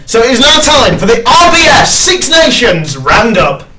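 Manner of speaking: rousing show-host intro; segment announcer. Real, not acted. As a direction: announce the next segment with a shout.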